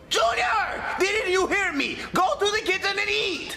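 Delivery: high-pitched scolding call; unwittingly loud. Acted. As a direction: scold loudly as if deaf to your own voice. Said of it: "he doesn't know how loud he's being".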